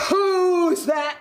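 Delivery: slow, drawn-out troll challenge; big storybook troll voice; bad-tempered troll. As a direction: roar it out slowly as a grumpy troll. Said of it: "old, bad-tempered troll".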